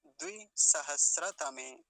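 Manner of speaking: loud, slow and emphatic; deliberate, forceful teaching demonstration; full model pronunciation. Shown as a demonstration. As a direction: punch out the whole compound. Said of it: "ऐसा इसका उच्चारण हो जाएगा".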